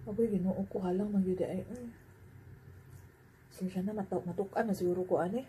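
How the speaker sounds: between bites of noodles; tags: talking while eating. Real, not acted. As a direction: lips moist from eating. Seen 0: Lifts noodles by hand while talking; bites them at 3.1s.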